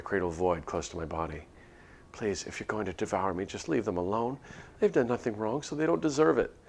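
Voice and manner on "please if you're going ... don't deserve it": 1 desperate pleading. Acted. Pleading with the monster.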